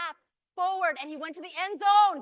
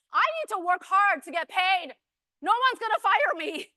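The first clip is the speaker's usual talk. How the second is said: loud, driven declaration; emphatic self-talk; 7 dB louder than usual. Acted. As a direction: declare it as a determined entrepreneur. Voices the entrepreneur's mindset.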